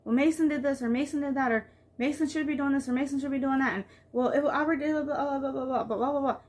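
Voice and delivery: lightly voiced complaining child; tattling child. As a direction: mimic a kid telling on her brother. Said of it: "and going".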